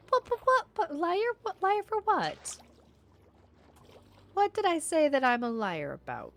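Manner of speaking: high, indignant disbelief; mock outrage. Real, not acted. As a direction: squeak out the protest. Indignant at chat calling her liar.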